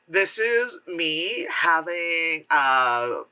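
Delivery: slow, drawn-out one-note line reading; hammed-up wooden delivery; mock bad acting. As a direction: announce it stiffly like a bad actor. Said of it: "the one-note acting from everybody".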